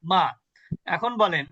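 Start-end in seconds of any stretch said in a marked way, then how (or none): 0.1-0.2 আরবি মা, বাংলা মা-র মতো খোলা আ; মা বলুন খোলা আ দিয়ে; short ma. Shown as a demonstration. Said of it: "মিমের উপরে জবর হলে কি হবে". (আরবি মা উচ্চারণ, বাংলার মতো খোলা আ)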